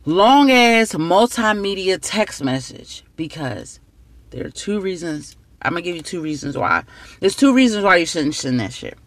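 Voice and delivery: tipsy, words slurring; slurred words. Real, not acted. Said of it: "Excuse me for slurring my words".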